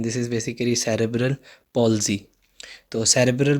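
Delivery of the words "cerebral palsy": slow, careful "cerebral palsy", with "palsy" as PAWL-zee; correct pronunciation. Shown as a demonstration. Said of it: "इसकी pronunciation ठीक रखनी है". ("cerebral palsy" धीरे से, "palsy" को "पॉल्ज़ी" बोलें)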